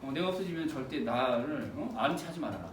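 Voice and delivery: low, soft last request; dying brother. Acted. Dying brother warning his sibling not to know him, hushed. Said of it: "형이 죽어가는 입장에서도".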